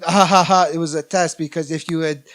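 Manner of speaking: lightly put-on French accent; a hint of a French accent quoting her. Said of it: "this is my French accent".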